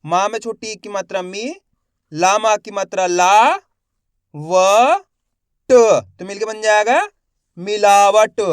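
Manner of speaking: teacher's drilled spelling, pausing between sounds, then मिलावट; letter-by-letter sounding out. Shown as a demonstration. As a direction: spell it out syllable by syllable, stretching ला. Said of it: "मैं किस तरीके से एक अक्षर का उच्चारण कर रहा हूँ".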